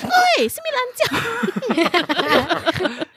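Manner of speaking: high, slow, stretched-out rude yell; rude shout. Retold or imitated. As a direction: drawl out a crude Hokkien taunt. Bus passenger yelling in Hokkien.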